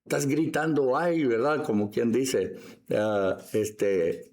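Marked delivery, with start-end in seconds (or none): 0.0-1.2 higher-pitched mock scolding; imitated shushing. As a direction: shush someone who is making noise. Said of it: "lo quisieron callar".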